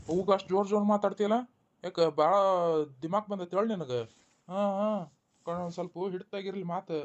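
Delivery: husband warning his wife to watch her tongue, sternly; stern rebuke. Acted. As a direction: pull her up for her cheek. Husband rebukes wife for loud talk.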